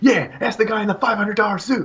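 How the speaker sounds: loud, very high-pitched screaming yell, boastful tone. Retelling a man's suit bragging, the speaker does a loud humble brag. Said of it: "humble bragging that his suit costs more".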